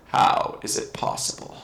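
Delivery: slow, low undead sorcerer voice; Lich voice. Shown as a demonstration. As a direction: drag it out like an ancient lich. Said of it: "let me do a Lich voice".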